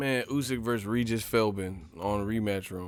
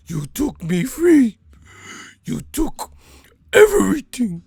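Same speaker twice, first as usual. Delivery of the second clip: high, loud falsetto wail, stretched out; mock falsetto wail; 11 semitones higher, 9 dB louder than usual. Comedian mocking a fighter with a high falsetto wail. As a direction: wail it like a heartbroken singer. Same wailing bit again.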